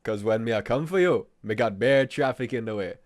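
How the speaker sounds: put-on Jamaican accent; mock Jamaican patois excuse. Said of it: "finish the episode in the accent".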